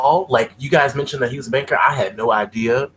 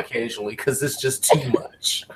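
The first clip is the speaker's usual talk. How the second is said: whispering. Real, not acted. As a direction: say it under your breath, hiding away. Retreating, whispering.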